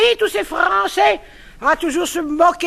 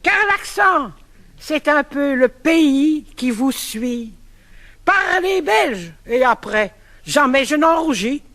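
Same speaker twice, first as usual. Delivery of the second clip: poem recital; 2 semitones lower than usual. Acted. Recites verse pastiche on accent.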